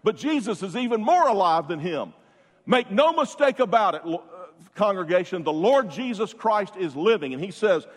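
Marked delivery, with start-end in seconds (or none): 2.7-7.3 louder, higher, fervent preaching. Real, not acted. Preacher to congregation, raised fervent proclamation. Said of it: "preaching at full force".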